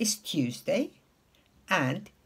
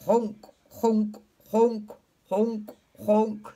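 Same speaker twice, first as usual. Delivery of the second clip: separate, level honking; evenly repeated goose calls; slower than usual. Retold or imitated. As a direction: imitate a goose. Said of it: "The goose goes honk".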